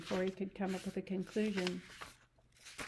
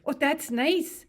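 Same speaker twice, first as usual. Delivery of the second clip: higher, much louder, very slow delighted sigh; pleased Lenny; 9 semitones higher, 10 dB louder, much slower than usual. Acted. Lenny stroking her hair, slow delighted murmur. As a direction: savour the softness slowly.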